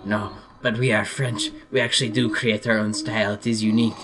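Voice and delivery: lightly hammed-up French accent; mock French accent. French rapper defends his originality, mock French accent. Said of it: "I'm doing some joking imitations".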